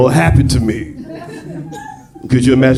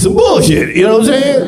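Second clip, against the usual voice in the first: much higher, louder complaint; exasperated; 13 semitones higher, 3 dB louder than usual. Real, not acted. Stepfather venting about his stepkids, exasperated. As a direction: throw up your hands about it.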